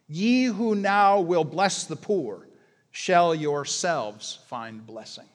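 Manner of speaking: slow, measured reading of the carol verse; solemn carol recital, slowed down; poem recitation. Acted. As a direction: recite the stanza with weight, slowly.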